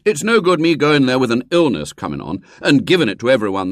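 mild whining plea; a boy wheedling his mother; pleading. A narrator's reading. William pleading.

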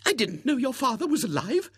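high, astonished lady's question; surprised spinster. Acted. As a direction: gasp it like a startled old maid. Miss Rubina to William.

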